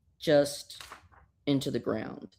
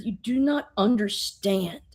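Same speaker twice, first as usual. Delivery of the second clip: whispered; 3 semitones higher than usual. Retold or imitated. Giant refuses Supergirl.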